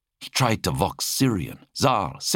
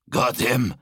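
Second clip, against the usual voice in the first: grunting; 6 semitones higher than usual. Acted. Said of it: "Zal grunted".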